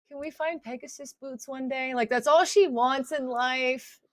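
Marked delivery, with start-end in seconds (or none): 0.1-1.9 teary, tearful voice, speaking through sobs. Retelling Jana's reaction after a hug, the speaker voices her: imitating Jana, tearful. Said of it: "She's just like sobbing".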